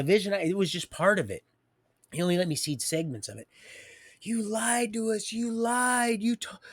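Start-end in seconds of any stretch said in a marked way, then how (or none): 4.2-6.6 a hint of a sneering mock chant; lightly mock the accusers; mild taunting sing-song. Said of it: "in the mocking".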